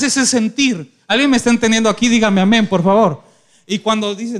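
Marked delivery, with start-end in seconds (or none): 1.1-3.2 loud, fast call to the congregation; preacher calling the church to say amen. Real, not acted. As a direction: rouse the crowd to answer.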